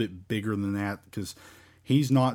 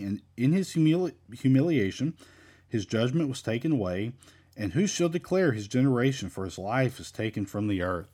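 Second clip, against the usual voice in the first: measured Bible reading, lilting phrases; scripture reading. Acted. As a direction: read the verse aloud to a congregation. Reads scripture aloud.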